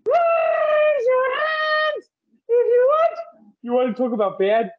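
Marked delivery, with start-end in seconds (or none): 0.1-3.2 high slow sung line with rolled r's. Pretend. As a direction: trill the r in "Raise" and hold it. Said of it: "hearing you roll your R's".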